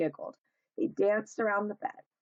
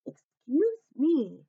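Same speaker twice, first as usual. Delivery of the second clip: polite high voice; 7 semitones higher, 6 dB louder, much slower than usual. A narrator's reading. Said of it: "he explained".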